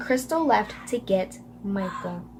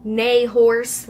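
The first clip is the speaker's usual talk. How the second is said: horse voice; 7 dB louder than usual. Shown as a demonstration. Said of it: "the animal horse voice".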